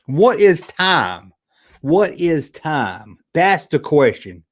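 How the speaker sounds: very slow, drawn-out musing; mock-profound pondering. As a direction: stretch each word like a pretend philosopher.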